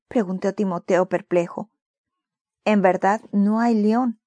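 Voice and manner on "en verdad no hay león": slow and gentle; consoling. Acted. Father comforts his feverish son, slow consoling. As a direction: soothe the scared child slowly. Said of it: "le consoló el papá".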